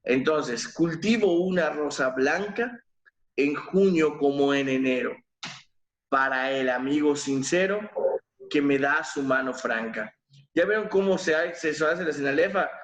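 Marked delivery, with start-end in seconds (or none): 0.7-10.1 measured verse reading, lingering on line ends; poem recital. Shown as a demonstration. Teacher reciting verse to the class. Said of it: "cómo debemos pronunciar la poesía".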